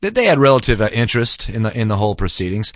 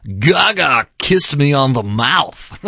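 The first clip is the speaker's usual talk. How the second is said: quoting slowly; 4 semitones higher, much slower than usual. Retold or imitated. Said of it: "and I'm quoting here".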